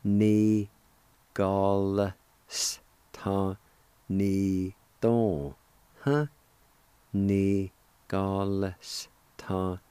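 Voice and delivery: Ni gal s ta ni don huh spoken in slow separate beats; careful Ni gal s ta ni don huh; syllable by syllable. Shown as a demonstration. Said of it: "like this".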